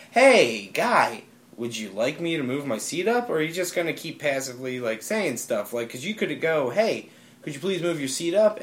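lightly mock a patronizing telling-off; talking down. Passenger retelling a reply to the man behind, mildly condescending. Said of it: "really talk down to him".

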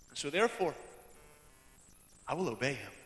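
low, soft, settled vow; humble resolve. Acted. Believer responding to costly acceptance, humbly and softly. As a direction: let the pitch and volume sink into a pledge.

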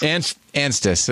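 Anstis said slowly, syllable by syllable; Anst-, Anstis, sounded out carefully; careful pronunciation. Shown as a demonstration. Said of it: "It depends on my terrible New York accent".

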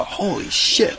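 breathless whispered amazement; awed crowd whisper. Retold or imitated. Crowd whispering in amazement at the trick. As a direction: breathe it out in awe. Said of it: "And they'd go".

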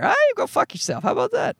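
high-pitched mock indignation; indignant retort. Dad answering back to the minister, high mock indignation. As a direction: tell them off in a high, squeaky-pitched huff.

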